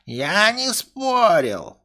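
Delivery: high, very slow dopey voice; dim-witted servant. Acted. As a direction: drawl out the denial.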